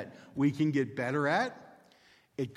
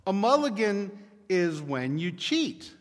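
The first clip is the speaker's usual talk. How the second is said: hesitant admission; 5 semitones higher, 6 dB louder than usual. Retold or imitated. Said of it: "he thinks for a moment".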